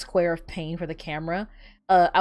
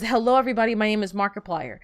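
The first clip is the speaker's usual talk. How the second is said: Markiplier intro; faster than usual. Retold or imitated. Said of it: "all he said was".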